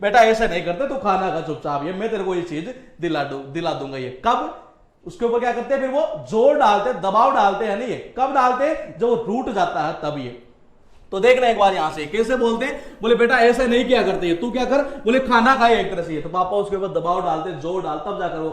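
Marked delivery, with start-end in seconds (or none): 0.0-4.2 lightly voiced dad soothing his sulking son; coaxing father, fading. Papa coaxing sulking child. 13.1-16.2 coaxing through a laugh; half-laughing dad telling the kid to eat; laughing mock father. Papa voice, laugh heard.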